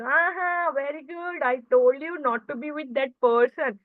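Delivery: sarcastic, scolding told-you-so; mock a crying friend with a biting "very good"; harsh tone. To a crying best friend after a breakup argument, a harsh sarcastic tone. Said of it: "using the harsh tone".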